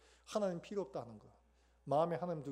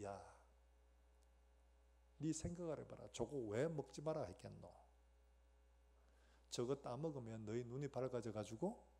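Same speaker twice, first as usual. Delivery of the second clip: lightly voiced tempter, low and quiet; sly tempter; 3 semitones lower, 6 dB quieter than usual. Devil luring Eve to the fruit, quiet tempting. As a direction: coax softly, as if sharing a secret.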